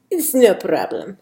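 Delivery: lightly attempted Spanish accent; mild put-on Spanish accent. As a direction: reassure with a touch of Spanish accent. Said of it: "Sophia's got a bit of a Spanish accent".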